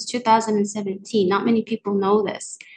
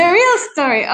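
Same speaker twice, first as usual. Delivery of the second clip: higher-pitched, amused repeat; laughing; 6 semitones higher, 4 dB louder, faster than usual. Real, not acted. Guest confirming the story choice to the host, laughing. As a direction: repeat it through a real laugh.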